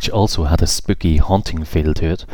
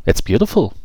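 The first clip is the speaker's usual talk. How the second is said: admiring fairy; 7 semitones higher than usual. Acted. Emily admiring garden.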